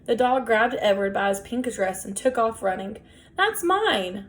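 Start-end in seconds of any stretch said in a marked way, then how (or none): 3.4-4.3 high, slow possessive yell; king of the garbage shouting; shouted. A narrator's reading. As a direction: bellow it like a madman guarding his trash. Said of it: "Ernest shouted".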